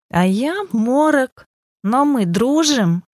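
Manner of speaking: high, slow, drawn-out call. A narrator's reading. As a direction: pipe up, stretching each phrase, without real shouting. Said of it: "выкрикнула в этот момент наша Верунька". (выкрикивая высоко и протяжно, но негромко)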